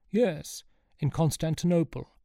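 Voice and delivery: lightly voiced reminiscing don; old professor. A narrator's reading. Professor answering Sean, lightly in character.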